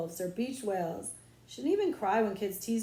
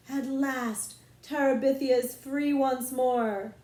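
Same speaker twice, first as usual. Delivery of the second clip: slow, loud solemn declaration; victory proclamation; 4 semitones higher, 5 dB louder, slower than usual. Acted. Queen proclaiming victory over the realm, slow and loud. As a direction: proclaim the land freed.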